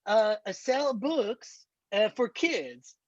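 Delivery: put-on drawn-out Borat accent sales pitch. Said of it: "do the entire demo in Borat voice".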